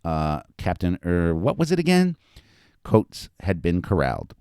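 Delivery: animated reading of a story; story narration. A narrator's reading. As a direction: read it out to an audience with lively emphasis. Author reads own story aloud.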